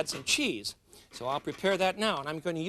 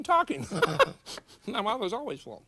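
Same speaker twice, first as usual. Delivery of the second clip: pitched up, breaking into a laugh; 4 semitones higher than usual. Real, not acted. Cook joking to viewers about talking while eating, laughing. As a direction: laugh through the word. Jokes about mouth full.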